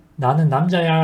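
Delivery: ordinary talk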